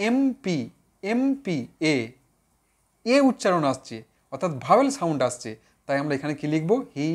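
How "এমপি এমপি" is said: "এমপি" said clearly with a plain "এ" at the start; careful pronunciation. Shown as a demonstration. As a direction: model "এমপি" slowly, opening on "এ". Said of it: "তুমি ভালো করে উচ্চারণ করো". ("এমপি" শুরুর "এ" স্পষ্ট করে উচ্চারণ)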